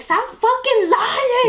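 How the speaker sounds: drawn-out, high scolding; slow high mocking voice. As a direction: stretch it out, mocking. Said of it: "I'm like".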